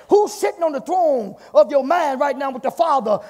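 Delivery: forceful, rising preaching questions. Real, not acted. Preacher challenges church about who is Lord, forceful preaching. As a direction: press the church hard with each question.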